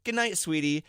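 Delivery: lightly mimicking a little girl; a hint of toddler sweetness; tiny toddler voice. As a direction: say it like a sleepy three-year-old. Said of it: "in her tiny little three-year-old voice".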